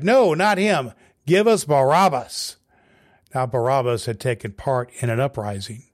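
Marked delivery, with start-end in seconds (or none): 0.0-2.6 higher, louder crowd shout. A narrator's reading. Crowd shouting back at Pilate, loud and high. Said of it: "They shouted back".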